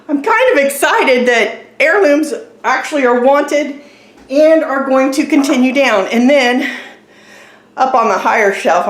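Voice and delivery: winded, talking between breaths; short of breath after moving furniture. Real, not acted. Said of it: "out of breath moving the table".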